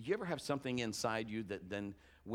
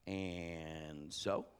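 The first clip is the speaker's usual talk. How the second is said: unimpressed so what; 7 semitones lower, 6 dB quieter than usual. Retold or imitated. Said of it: "it'd be like".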